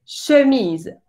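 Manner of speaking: chemise with a rounded schwa, slow; French chemise. Shown as a demonstration. Teacher modelling a French word for the class. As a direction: say chemise slowly with rounded lips. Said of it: "la palabra camisa. Dice chemise".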